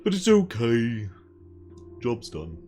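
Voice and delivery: a lightly done West Country accent. Shown as a demonstration. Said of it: "the one where you sort of talk like this".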